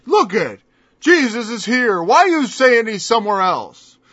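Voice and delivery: lightly voiced jeering mockers; a hint of taunting the believers; mocking scoffers. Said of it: "they begin to mock you and say".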